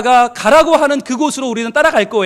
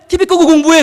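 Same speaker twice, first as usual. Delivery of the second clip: louder, higher mock command of a mom; mother's order; 5 semitones higher, 5 dB louder than usual. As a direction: bark it like a mom catching the TV on.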